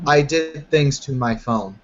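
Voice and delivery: put-on slow, halting Middle Eastern accent; searching for words in a heavy Middle Eastern accent. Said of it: "she will say in an extremely heavy Middle Eastern accent".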